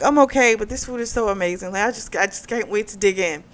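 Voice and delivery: lightly voiced flustered woman; breezy cover-up. Woman to the restaurant owner, light breezy fake calm.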